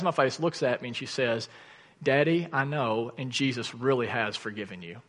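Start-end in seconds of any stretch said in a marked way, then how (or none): 2.0-5.0 gentle reassurance. Retold or imitated. Daughter comforting her guilt-ridden daddy, gently reassuring. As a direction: lightly voice a child's tender comfort, hushed.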